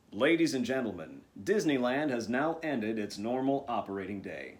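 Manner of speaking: warm, musical park announcer; lightly sing-song closing announcement, drawn out with warmth; Jack Wagner. Acted. Announcer telling guests Disneyland's day has ended, warm Jack Wagner impression. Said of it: "you can hear the warmth in him saying".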